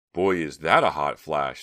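loud, slow, drawn-out scoff. A narrator's reading. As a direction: scoff with heavy sarcasm. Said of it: "Stephanie scoffed".

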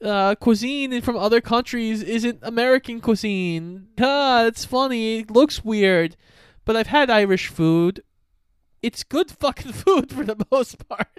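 a filmmaker shrugging off the joke; mock filmmaker. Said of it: "I understand".

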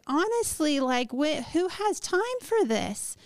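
put-upon, acted protest; retold exasperation. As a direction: draw it out as an incredulous complaint. Retold exasperated answer to therapist.

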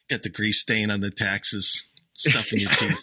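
put-on light New York Jewish accent, a bit slow; lightly put-on New York Jewish accent. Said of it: "That accent".

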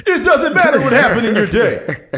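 loud, high, laughing Rock line; Rock impression. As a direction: bark it like The Rock. Imitating The Rock.

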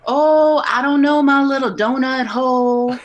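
loud, high, hammed-up pet-name banter; imitating a doorman trading candy nicknames; playful bodyguard reply. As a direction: play along in a big mock-sweet voice. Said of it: "And he'd be like".

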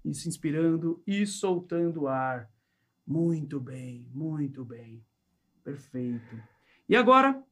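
calm, measured hypnosis countdown; slow hypnotist voice. Acted. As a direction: lull them under with each number. (voz lenta de hipnotizador)

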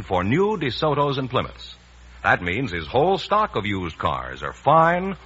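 polished radio ad pitch for used cars; commercial read. Acted. Announcer pitching dealer specials to radio listeners, upbeat ad read. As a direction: sell the bargains with upbeat announcer confidence.

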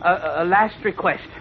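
nervous, halting pleading; stammering fear. Acted. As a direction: stutter and beg for time. Horn stammers facing execution.

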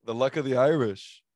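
loud, hyped-up bellow; excited shout. Acted. Co-host shouts his rainbow joke, big excited yell. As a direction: belt out the punchline. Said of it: "Tone it down".

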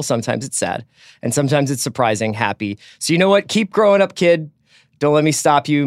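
heartfelt reading of a farewell letter, rising on the pep talk; emotional letter reading. Acted. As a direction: read it like a father's farewell letter. Reads Hopper's letter aloud.

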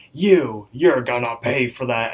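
a hint of a menacing wizard; creepy wizard. Wizard confronts Rigby for egging his house, lightly voiced threat. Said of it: "this big creepy wizard dude comes out".

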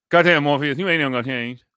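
put-on mumbling Southern Florida accent, lightly done; imitating Roy Jones Junior's accent. Co-host imitating Roy Jones Junior for friend, Southern accent. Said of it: "thick Southern Pensacola, Florida accent".

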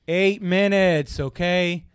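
slow, drawn-out retort in imitation; fed-up announcement. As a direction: mimic someone over another man's yelling. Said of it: "over this guy yelling".

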